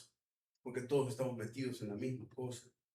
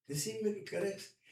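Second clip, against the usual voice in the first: urging king; 6 semitones higher than usual. Acted.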